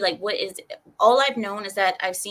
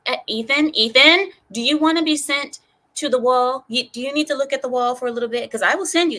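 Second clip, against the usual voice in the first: mock scolding; 4 semitones higher, 4 dB louder than usual. Mock threat to discipline a chatter.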